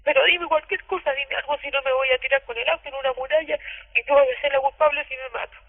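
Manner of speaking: desperate plea. Retold or imitated. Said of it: "y se pegaba y me decía".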